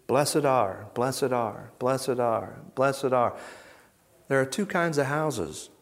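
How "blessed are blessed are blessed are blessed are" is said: gentle blessing. Shown as a demonstration. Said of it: "He's just talking like this".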